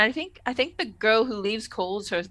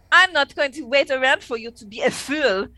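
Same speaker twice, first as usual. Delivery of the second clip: attempted French accent; 3 dB louder than usual. Stood-up woman announces she is leaving, badly faked French accent. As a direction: have a shaky go at a French accent. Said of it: "it was supposed to be French".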